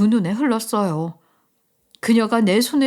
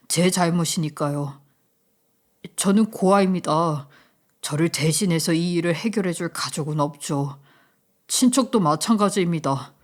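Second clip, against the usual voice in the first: a lower, even voice; calm, composed reply; 5 semitones lower than usual. Acted. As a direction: answer steadily, without emotion. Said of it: "저는 덤덤하게 답했죠". (담담하고 낮은 목소리로)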